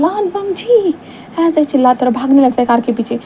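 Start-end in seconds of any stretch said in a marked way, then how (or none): 0.0-1.0 high, loud call across the street; loud shout. Acted. Wing shouting after Wang Ji's departing car, loud desperate yell. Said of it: "इसके कारण विंग जोर से चिल्लाता है".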